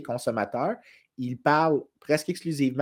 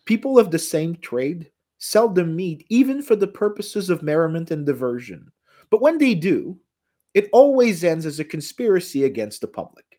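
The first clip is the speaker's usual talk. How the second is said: put-on British accent; 6 semitones higher, 5 dB louder than usual. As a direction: quote Adam Smith in a British accent, a bit louder. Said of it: "Tu prends même ton petit accent british". (citer Adam Smith avec un accent britannique)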